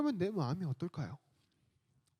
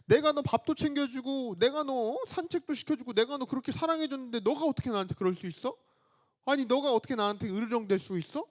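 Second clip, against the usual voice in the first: hurt and upset; 3 semitones higher than usual. Retold or imitated. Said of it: "정말 엄청 엄청 서운할 것 같아요".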